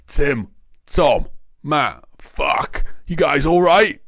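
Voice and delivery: high, urgent shout across to others; calling out. A narrator's reading. Injured officer to his fellow policemen, calling out. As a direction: call out high to fallen colleagues. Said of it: "the officer called out to his fellow policemen".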